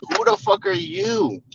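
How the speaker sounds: high, slow, outraged shout; mock outraged yell. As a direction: scream it at him in disbelief. Ranting at youtuber.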